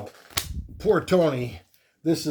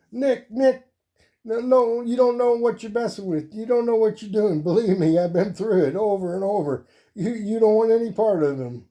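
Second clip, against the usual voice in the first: much higher and louder, frantic warning; pleading Iron Man; 8 semitones higher, 4 dB louder than usual. Acted. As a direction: beg Nick to back off in a high, urgent voice. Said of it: "And Iron Man's looking up".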